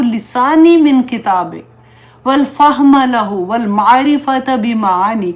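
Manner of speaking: slow, devout Arabic dua, each phrase drawn out; slow recited prayer. Acted. Teacher leading her listeners in a dua, slow and devout. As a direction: pray it slowly and earnestly, word by word.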